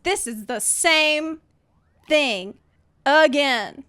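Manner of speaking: slow, word-by-word disbelief; retold exasperation. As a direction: drag it out, exasperated, with pauses. Retold disbelief at repeated failure.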